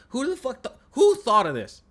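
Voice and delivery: high, loud disbelieving yell; who could have thought of this, yelled high and loud; incredulous outburst. Real, not acted. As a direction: shout it out in disbelief at the game. Peak of angry rant.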